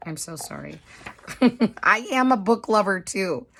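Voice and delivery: ordinary talk, nothing marked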